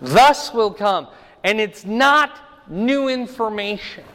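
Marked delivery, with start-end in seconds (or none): 0.0-1.1 "Thus" pressed and slowed; "Thus" said firmly, a bit slower; stress on thus. Shown as a demonstration. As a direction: land on "Thus" like the literal text. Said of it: "literally it says that".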